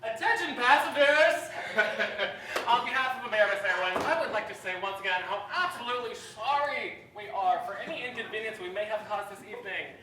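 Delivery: cheery gate agent announcement; over-polite airline apology voice; airport announcement. Acted. Flight attendant addressing stranded passengers.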